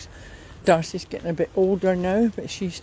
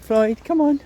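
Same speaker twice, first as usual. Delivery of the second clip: higher, louder call; calling the dog; 7 semitones higher, 5 dB louder than usual. Real, not acted. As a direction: summon the dog along.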